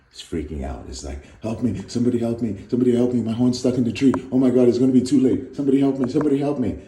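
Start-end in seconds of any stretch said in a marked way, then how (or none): 1.4-6.8 high, loud frantic cries for help; a stuck unicorn screaming for rescue; panicked unicorn. Acted. Unicorn to passerby, a high, loud panicked plea.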